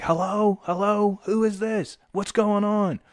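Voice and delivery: high, puzzled phone voice; calling into phone. Retold or imitated. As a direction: act out shouting hello on a noisy line. Answering a loud phone call.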